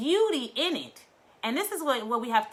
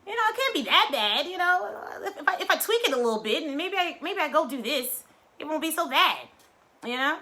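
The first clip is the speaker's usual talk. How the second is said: self-convincing; 6 semitones higher than usual. Retold or imitated. Rationalizing, talking themselves into it.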